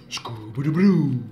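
loud, long drawn-out playful call; cartoon catchphrase call. Child shouting a cartoon dog's catchphrase, drawn-out call. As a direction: stretch the name out and belt it.

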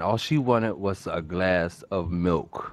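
mock solemn. Friend mock-mourning the kid who only wanted milk. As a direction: drag it out like a tragic tale.

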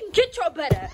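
high, loud shout; bossy shouted command; angry order. Real, not acted. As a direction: yell at her to get up. Ordering sister out of bed.

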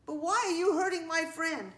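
high, loud, pleading protest; upset demand. A narrator's reading. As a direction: press the child for a reason. Ladybug keeps confronting the child.

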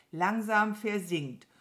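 „versinkt“ langsam und deutlich betont; betonte Korrektur. Acted. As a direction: das Wort „versinkt“ laut und gedehnt berichtigen. Mama Mu korrigiert ihr Wort. (deutliche Betonung auf „versinkt“)

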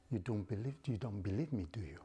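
sinister mocking angel of death; taunting menace; evil voice. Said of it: "the voice is like an evil voice".

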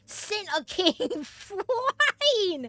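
loud high-pitched shrieking through laughter; amazed, laughing yelling. Real, not acted. Gamer watching his king get sent flying, shrieking with laughter.

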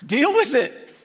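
tossing it off with a laugh; chuckled deal with it. Real, not acted. Preacher repeats catchphrase, laughing.

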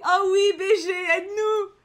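high, loud fangirl plea; excited outburst. Real, not acted. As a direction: call out eagerly for help, hammed-up. Eager reaction to a story character. (appel enthousiaste, aigu et fort)

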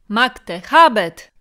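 loud cry of Magte, habet ringing out; arena cheer shouted at full voice; crowd shout. Acted. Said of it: "zawołało kilka głosów".

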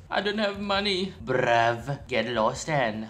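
clumsy mock-British slang voice; attempted British accent. Gamer mimicking a British character he has no idea how to copy, attempted British accent. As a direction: have a rough go at sounding British. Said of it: "I have no idea how to speak like British people".

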